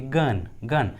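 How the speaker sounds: गन begun with a hard G. Shown as a demonstration. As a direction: model गन twice, G as in go. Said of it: "जी का उच्चारण ग हुआ है". (गन में G को "ग" बोलते हुए)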